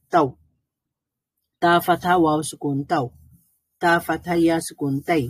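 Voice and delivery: "তাও" and "তাই" as soft, unstretched diphthongs; soft leen glide. Shown as a demonstration. Teacher shows learners how leen is read, soft glide. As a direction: glide gently through "তাও", "তাই" without prolonging. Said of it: "নরম করে পড়তে হবে".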